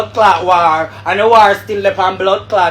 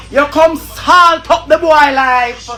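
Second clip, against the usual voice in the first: angry shout; 6 semitones higher, slower than usual. Real, not acted. Angry rant at Emily.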